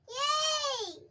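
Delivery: high, loud, drawn-out cheer; excited cheer. Real, not acted. Child answering the teacher's "you understand now", excited cheer.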